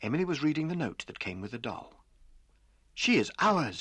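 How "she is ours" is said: louder, higher cry of joy; excited shout. A narrator's reading. Emily shouting happily about the doll. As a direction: call it out in delight. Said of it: "she shouted".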